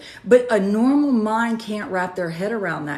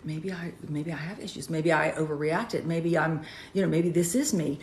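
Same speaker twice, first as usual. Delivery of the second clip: retold doubt, soft and small, much softer; self-doubting hush; 2 semitones lower, 6 dB quieter than usual. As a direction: shrink into self-doubt, barely voiced. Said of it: "you're going".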